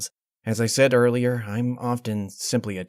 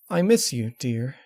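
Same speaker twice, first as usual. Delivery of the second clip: Twilight; 4 semitones higher than usual. Acted. Twilight voiced, emotional.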